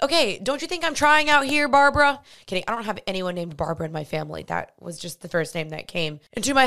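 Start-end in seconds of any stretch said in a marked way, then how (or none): 0.0-2.2 higher, louder fed-up reply; exasperated. Retold or imitated. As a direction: snap back in exasperation. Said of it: "I'm like".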